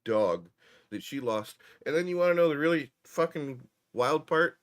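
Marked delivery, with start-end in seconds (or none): 1.9-4.6 excited build-up. Real, not acted. Building to the punchline.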